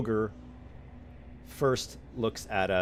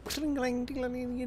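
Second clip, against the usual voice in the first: clanging noise; 5 dB quieter than usual. Acted. Sound effect of dropping weapons.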